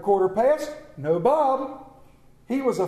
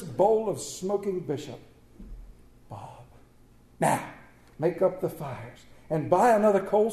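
earnest. Acted. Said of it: "with earnestness that could not be mistaken".

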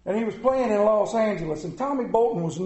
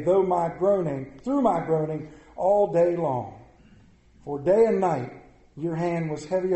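scripture reading; 3 semitones lower than usual. Acted. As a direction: read it out line by line, unhurried. Reads the psalm aloud to congregation.

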